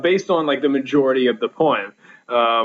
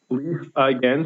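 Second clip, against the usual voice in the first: LEAF stressed, "again" left light; dactylic stress. Shown as a demonstration. Teacher scanning a line for the class, dactylic stress on "Leaf". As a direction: lean on "Leaf", let both syllables of "again" go unstressed. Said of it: "so that's stressed, un, un".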